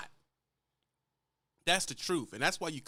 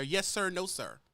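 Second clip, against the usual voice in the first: polite driver. Retold or imitated. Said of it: "they're polite".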